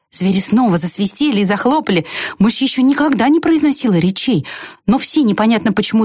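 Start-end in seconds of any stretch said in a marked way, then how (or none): none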